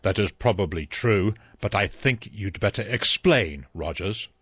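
dry. Acted. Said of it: "The judge said dryly".

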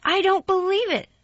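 very high, loud scornful doubt; sour disbelief. A narrator's reading. Mary doubting Colin, sour and loud. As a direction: say it sourly. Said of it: "said Mary sourly".

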